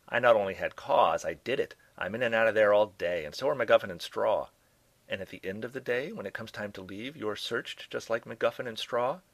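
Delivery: brash scientist. Acted. Sardonic doctor complains to the detective about searches, in a lightly voiced brash tone. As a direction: toss it off, sardonic and blunt. Herring's lines, story dialogue.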